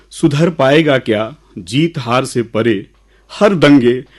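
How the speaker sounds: measured, lilting recital with pauses; poem recitation. Acted. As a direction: recite verse to an audience, leaning on key words. Recites his own poem.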